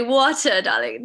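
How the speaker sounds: grandmotherly British "water, darling"; playful put-on British accent. Shown as a demonstration. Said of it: "my grandmother was also speaking in the British".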